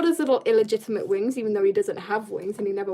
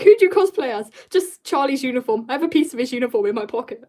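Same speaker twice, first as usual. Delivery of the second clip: mock cosplayer reply; 2 semitones higher, 6 dB louder, faster than usual. Mocking a cosplayer's answer.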